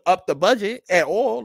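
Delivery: laughing while mocking; chuckled sarcastic aside; laughing through words. Real, not acted. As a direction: break into a laugh on it. Laughing mid-rant.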